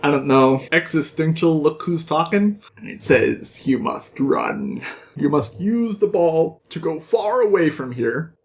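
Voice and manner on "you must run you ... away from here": put-on demon baby. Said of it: "her little demon baby is talking to her".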